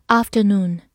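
British pronunciation of "afternoon"; British accent. Shown as a demonstration. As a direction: say "afternoon" the British way, open first vowel. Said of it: "美式发音读作afternoon".

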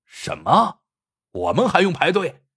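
a loud, outraged yell rising in pitch; loud outcry. A narrator's reading. The rude leader, told to queue, yells at the doctor in outrage. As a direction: throw the question back, loud and outraged. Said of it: "大叫".

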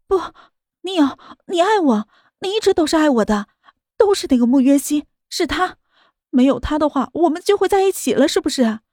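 mild shout. Acted. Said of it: "吼道".

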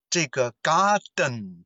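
"garden" slowed, its den swallowed in the throat; slow "garden", swallowed ending. Shown as a demonstration. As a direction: let the den of "garden" vanish into the nose. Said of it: "好像声音被吞进去了".

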